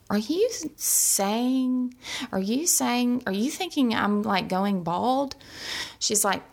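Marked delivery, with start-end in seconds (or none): 0.1-5.4 slow, halting incredulous question; starts higher, settles as it sinks in; retold disbelief. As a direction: act out dawning alarm, stretching the words. Retells her alarm at diagnosis.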